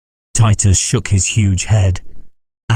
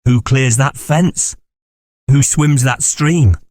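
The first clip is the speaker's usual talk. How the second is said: slow, rising hunting cheer; excited hunt calls; 5 semitones higher, slower than usual. Acted. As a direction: urge the riders on. Delirious hunter cheering the chase.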